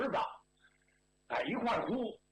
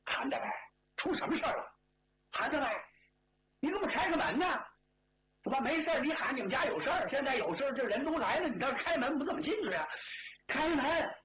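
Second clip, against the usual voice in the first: put-on higher-pitched shouts to the old man behind the door; villagers shouting; 5 semitones higher than usual. Villagers at the gate shouting at old Han to open up, raised calls. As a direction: call through the door, pressing him to open. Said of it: "到了门口这嚷嚷".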